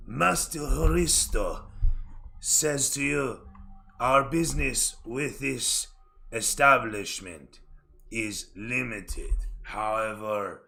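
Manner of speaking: slow, measured servant's voice; formal aide. Acted. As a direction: speak each word deliberately for your master.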